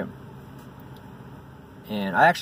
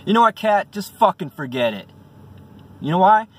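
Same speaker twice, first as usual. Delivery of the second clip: raised, higher-pitched telling-off; exasperated scolding; 6 semitones higher, 3 dB louder than usual. Acted. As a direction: give up on the cat, mock indignant. Acted scolding of the cat.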